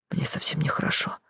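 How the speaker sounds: whispered, sick; whispered nausea. A narrator's reading. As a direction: breathe it out weakly. Narrator feeling sick.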